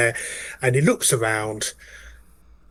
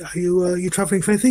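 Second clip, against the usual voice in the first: chirpy polite conductor; 6 semitones higher than usual. Acted. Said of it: "checks the name".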